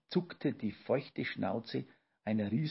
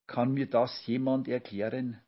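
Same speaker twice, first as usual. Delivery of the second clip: grandma calling out; 3 dB louder than usual. Acted. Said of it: "rief Olchi Oma".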